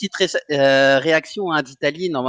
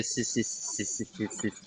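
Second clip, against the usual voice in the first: speechless whisper; 6 semitones lower, 16 dB quieter, slower than usual. Real, not acted. Speechless about the win.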